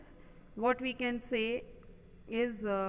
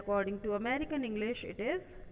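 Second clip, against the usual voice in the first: slow teaching read; much slower than usual. Shown as a demonstration. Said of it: "according to British English it is flyover".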